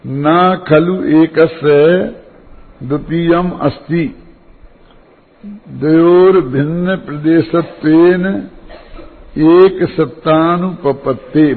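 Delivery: slow, measured recital of a verse; formal, unhurried quoting of scripture; Sanskrit scripture recitation. Real, not acted. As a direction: recite it slowly, drawing out the syllables.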